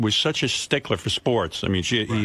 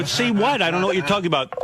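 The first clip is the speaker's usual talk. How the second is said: higher, puzzled see what; confused reply; 8 semitones higher, faster than usual. Retold or imitated. Son telling dad he has no idea, higher and puzzled. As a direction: sound lost and baffled. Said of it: "I go".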